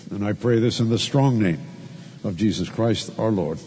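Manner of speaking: a pastor leading the congregation in prayer, reverent; closing prayer. Acted. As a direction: pray it humbly to God.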